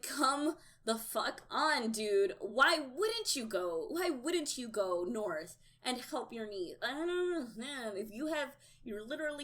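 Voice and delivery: loud, exasperated rant; retold yelling at TV. Viewer yelling at the TV over the Blackfish, exasperated. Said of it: "I was literally yelling at my T V".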